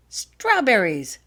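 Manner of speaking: slow, loud, delighted; with pleasure. A narrator's reading. Girl tastes her pill and names the flavour, delighted and drawn out. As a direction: savour the word. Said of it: "she announced with pleasure".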